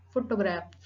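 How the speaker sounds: "photograph" with PHO stressed, falling away; accent on first syllable. Shown as a demonstration. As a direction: put the main weight on PHO in "photograph". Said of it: "Primary accent on the first syllable".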